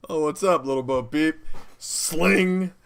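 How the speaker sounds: high, loud cocky greeting; mock murder hobo. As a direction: hail your victim, then punch the sound effect. Acts murder hobo attacking Bo Peep.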